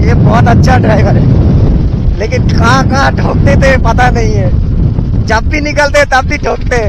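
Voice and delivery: loud over the engine; shouting. Real, not acted. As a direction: shout over road noise. Shouting over traffic noise.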